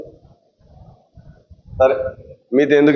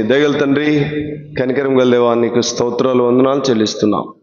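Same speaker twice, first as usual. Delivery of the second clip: closing prayer; 2 semitones lower than usual. Acted. Preacher leads the congregation in a closing prayer, hushed and pleading.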